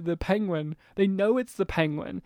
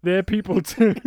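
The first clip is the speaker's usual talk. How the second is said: Adam West to camera; 4 dB louder than usual. Retold or imitated. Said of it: "Adam West looking directly to the camera".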